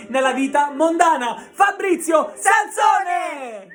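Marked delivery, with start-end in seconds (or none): 1.5-3.7 announcer shout. Acted. Host announcing guest loudly.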